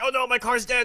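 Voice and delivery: loud, high mock panic; freaking out. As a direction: panic over a broken car, hammed up. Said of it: "you're, like, freaking out".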